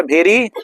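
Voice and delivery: भेरी said with an aspirated bh; mock the wrong भेरी with a heavy bh; wrong bh sound. Shown as a demonstration. Teacher models the mistaken भेरी with bh. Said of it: "नहीं पढ़ा जाता है".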